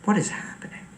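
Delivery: hushed, worried whisper; alarmed whisper. Real, not acted. Alone at home, spooked by noises outside, whispering.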